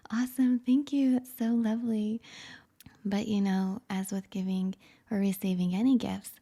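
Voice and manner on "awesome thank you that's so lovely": higher, lightly acted thanks; pleased gift receiver. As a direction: play at gratefully receiving a present.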